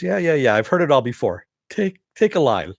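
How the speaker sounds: imitated impatient "heard it all" comeback; retold brush-off. Acted brush-off of a threat.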